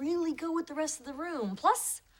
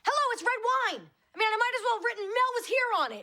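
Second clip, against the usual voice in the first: high, panicky sarcastic outburst; frantic exasperation; 9 semitones higher, 3 dB louder than usual. Acted. Woman who stained the chair with wine, frantic high outburst. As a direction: snap back in a high panic.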